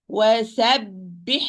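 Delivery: "Wasabbih" slow, ending on a long airy throat h; careful drawn-out "Wasabbih"; running breath on ha. Shown as a demonstration. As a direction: let sound and breath flow on the last h of "Wasabbih". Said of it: "give the rakhawa to the ha and the hams".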